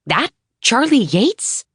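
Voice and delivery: high, slow, amazed question; can it really be him; awed disbelief. Acted. Writer checking it's the legend, high and slow.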